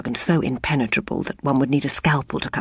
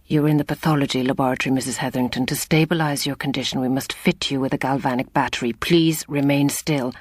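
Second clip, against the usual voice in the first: put-on Irish accent. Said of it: "The surgeon's soft Irish accent".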